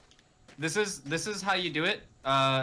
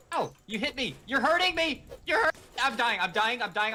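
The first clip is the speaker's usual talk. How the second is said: mock dying; 6 semitones higher than usual.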